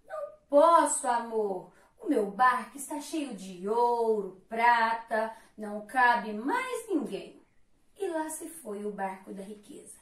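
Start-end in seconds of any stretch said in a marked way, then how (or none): 0.1-7.4 a lightly voiced proud rich figure, loud lower refusal; haughty refusal. Wealth refuses drowning Love, loud lower haughty voice. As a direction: brush him off from a gold-filled boat. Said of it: "leve-me com você".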